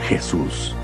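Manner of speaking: ordinary talk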